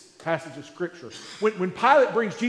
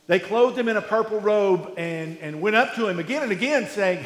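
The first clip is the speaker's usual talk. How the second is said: measured, solemn Bible reading; scripture reading. Acted. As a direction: read the passage to the congregation with gravity. Reads the Passion scripture aloud.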